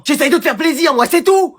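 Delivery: exasperated, high-pitched outburst; near-shout of frustration. Acted. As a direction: snap back, hurt, pitch climbing. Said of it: "Attends, ne crie pas trop".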